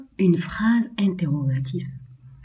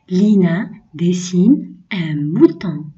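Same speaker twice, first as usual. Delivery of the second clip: slow "Lina dessine un mouton" leaning on "Lina"; slow reading. Shown as a demonstration. Teacher reads the second sentence slowly to children. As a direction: read it slowly for pupils. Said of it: "Je lis les phrases".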